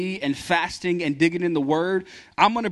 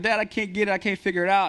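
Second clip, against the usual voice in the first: put-on kid whining for help; 5 semitones higher, faster than usual. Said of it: "And they're like".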